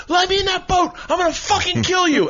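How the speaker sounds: high, mock furious threat; hammed-up rage from the water; imitated angry threat. Bobby threatening the driver from the water, mock furious. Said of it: "And he goes".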